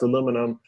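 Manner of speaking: "aluminum" with the LOO stressed; mispronounced aluminum. Retold or imitated. Son quoting his mom's slip, mispronounced "aluminum". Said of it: "She mispronounced aluminum".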